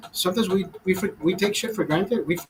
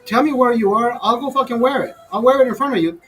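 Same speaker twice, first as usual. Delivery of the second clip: defiant retort; 5 semitones higher than usual. Retold or imitated. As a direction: challenge him to his face. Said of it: "I'm like".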